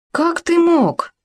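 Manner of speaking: high, slow, stunned; shocked. A narrator's reading. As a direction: gasp it out in disbelief. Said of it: "не мигая, уставился на него Хома".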